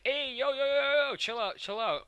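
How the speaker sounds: high, loud 'hold on' plea; mock urgent pleading. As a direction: imitate hurriedly talking someone down. Steven tries calming the cluster.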